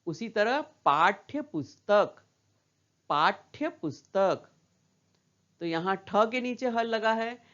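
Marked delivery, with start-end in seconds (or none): 0.6-4.5 पाठ्य slow, with ठ cut short into य; half consonant. Shown as a demonstration. Teacher modelling the phrase for children, slow halved ठ in पाठ्य. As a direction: read पाठ्य पुस्तक slowly, halving the ठ. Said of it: "ठ का उच्चारण थोड़ा कम हो रहा है".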